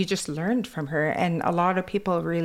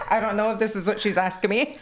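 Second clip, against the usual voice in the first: quick, laughing self-quote; laughing unsure quote; 4 semitones higher, 3 dB louder, faster than usual. Retold or imitated. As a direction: giggle through your own confusion. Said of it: "I'm like".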